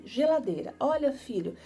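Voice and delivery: name the object clearly and brightly; mother teaching a word. Shown as a demonstration. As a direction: mom showing her son the fridge card. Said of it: "Você coloca assim".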